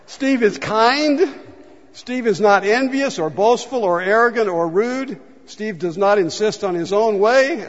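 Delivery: reads it like a confession he'd rather skip; sheepish reading. Shown as a demonstration. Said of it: "Here, I'm gonna try it".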